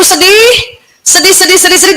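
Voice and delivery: SEDIH repeated high in a quick chain; insistent repetition. Shown as a demonstration.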